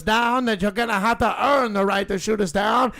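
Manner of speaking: rising fired-up rally cry; rousing protest speech. Acted.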